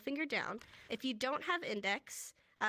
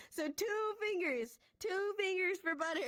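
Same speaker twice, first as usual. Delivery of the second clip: emphatic reminder; 7 semitones higher than usual. Shown as a demonstration. Emphatic teacher correction, laughing.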